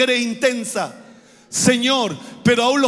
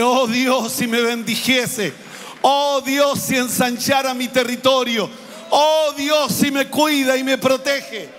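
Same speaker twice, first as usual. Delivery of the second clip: fervent prayer; 2 semitones higher than usual. Acted. Preacher voicing fervent prayer.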